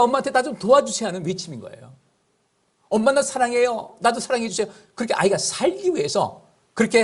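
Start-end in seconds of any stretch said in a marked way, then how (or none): 0.0-1.1 put-on child's plea. Baby's cry voiced as words. 2.9-4.7 put-on child's plea. Baby's cry voiced as words.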